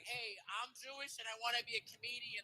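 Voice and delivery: high, soft hopeful pitch; would-be comedian. Acted. Would-be comedian pitching himself to casters, high mock voice. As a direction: pipe up like an eager auditioner. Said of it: "He's like".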